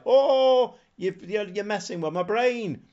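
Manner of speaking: mock overwhelmed cry, voice jumping up; confused AI. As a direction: act out a baffled computer opponent, stumbling into a complaint. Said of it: "it confuses the A I".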